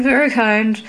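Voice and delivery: closer to plain, light giggle on "very kind"; mild tittering echo. A narrator's reading. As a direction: let the repeat fall away. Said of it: "Berryminds tittered".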